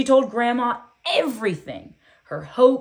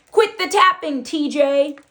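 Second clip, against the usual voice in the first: loud, high, snapped complaint; loud whisper; 6 semitones higher, 5 dB louder than usual. Acted. Bully annoyed by her tapping, loud stage whisper. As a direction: hiss it loudly at her. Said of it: "Bo whispered in a loud voice".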